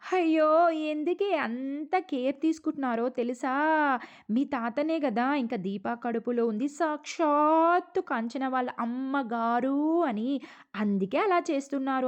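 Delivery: lightly acted taunting character; voicing Paru. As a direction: play the scheming relative, sly and loud. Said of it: "ఇంకప్పుడు పారు అంటదనమాట".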